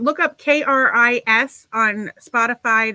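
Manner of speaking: K R I S spelled slowly, letter by letter. Shown as a demonstration. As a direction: say K R I S as separate slow letters. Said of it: "That's Chris".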